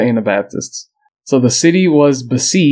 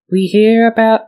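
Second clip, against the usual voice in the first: put-on high-pitched, clumsy Amish woman accent; attempted Amish accent; 10 semitones higher than usual. Podcaster quoting an Amish woman, unsure of the accent. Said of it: "I don't know how to do the accent".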